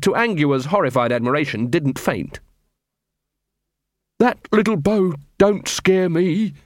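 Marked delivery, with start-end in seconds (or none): 4.2-6.5 slow, surly tough-guy voice; gruff armourer. Acted. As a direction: drawl it like an unimpressed heavy.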